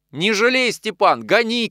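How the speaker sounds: high, loud cry to drive on; urgent shout. A narrator's reading. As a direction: yell at the driver to hurry. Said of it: "крикнул, впрыгивая в коляску". (громко, торопя ямщика)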